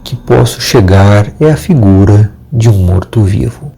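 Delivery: measured storyteller with suspenseful pauses; horror story narration. A narrator's reading. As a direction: tell a scary tale, pausing between phrases.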